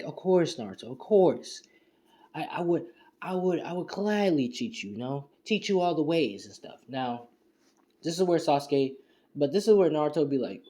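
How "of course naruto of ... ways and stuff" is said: higher-pitched, mock-obliging yes; eager agreement. Fugaku buttering up Naruto as his teacher, eager agreement. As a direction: play a light, over-willing acceptance.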